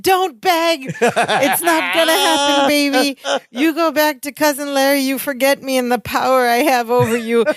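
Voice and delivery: hammed-up, commanding brush-off; freaking out. Podcaster acting Balky rejecting Jennifer's pleas, mock freak-out. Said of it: "Balky is freaking out".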